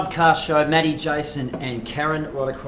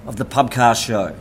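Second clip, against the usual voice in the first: slow, booming show host intro; announcer voice; 4 semitones lower than usual. Acted. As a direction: announce it like a big event. Grand announcer intro of segment.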